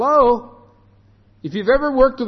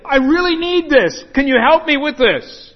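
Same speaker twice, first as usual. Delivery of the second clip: pleading borrower; 5 semitones higher, 4 dB louder than usual. Retold or imitated. Borrower begging again.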